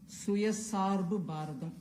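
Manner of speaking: "Suya Sarb Bharadam" said slowly in Tamil; "Suya Sarb Bharadam" with Tamil sounds; Tamil word. Shown as a demonstration. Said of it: "I'll just say what it means".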